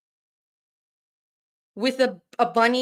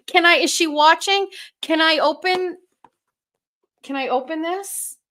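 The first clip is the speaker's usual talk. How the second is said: excited asking; 5 semitones higher, 4 dB louder than usual. Real, not acted. Eager to open the gift.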